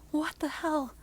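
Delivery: shocked mock yell, still hushed; outraged at the shooting; whispered mock scream. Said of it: "you scream at him".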